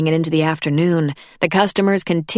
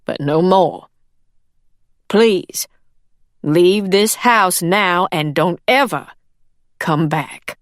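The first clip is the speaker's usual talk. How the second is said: stern; 3 dB louder, slower than usual. Acted. Ordering maid out.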